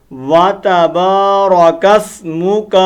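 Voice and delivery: اسْمُكَ with a short, quick kaf; correct recitation. Shown as a demonstration. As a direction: say وَتَبَارَكَ اسْمُكَ without stretching the kaf. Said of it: "کیا پڑھتے ہیں؟". (کاف کو لمبا کیے بغیر پڑھیں)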